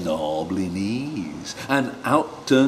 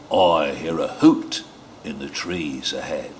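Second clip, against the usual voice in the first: wary Gruffalo; 6 semitones lower than usual. Acted. Gruffalo voiced low.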